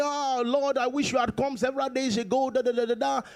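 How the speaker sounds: imitating Mary. Preacher retells Mary's complaint to Jesus, mock lament. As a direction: lightly mimic a complaint, tailing into da-da filler. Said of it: "Mary was saying".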